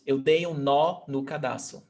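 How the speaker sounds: full open "nó", then a light "no"; stress on "nó". Shown as a demonstration. Teacher shows one stressed and one not, stress on "nó". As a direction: lean on "nó" and let "no" slip by. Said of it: "one is stressed and the other one is not".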